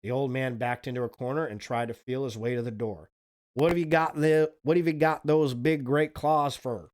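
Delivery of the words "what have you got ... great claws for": scared babbling. Acted. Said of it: "He was so scared he began to babble".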